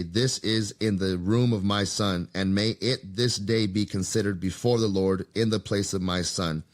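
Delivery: steady storyteller's reading voice; measured reading of an ancient text; scripture reading. Acted. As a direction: read the old text aloud evenly.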